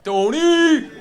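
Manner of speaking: loud, high greeting shout; calling out. Real, not acted. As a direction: yell his name across the room. Calls out to friend in crowd.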